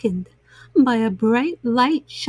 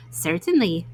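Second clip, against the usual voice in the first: deep gentle porcupine; low, kindly porcupine voice; 6 semitones lower, 4 dB quieter than usual. A narrator's reading.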